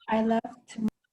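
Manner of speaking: "I loved them all" with the th of "them" dropped, run together as "lovt 'm all"; Yorkshire accent. Shown as a demonstration. Student demonstrating the Yorkshire accent for class, a Yorkshire accent. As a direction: clip "them" down to a bare "m". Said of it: "It should sound like".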